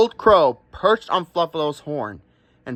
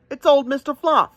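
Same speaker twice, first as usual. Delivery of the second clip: a much higher, teasing ram voice; mocking ram; 9 semitones higher than usual. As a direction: poke fun at the wet little buffalo.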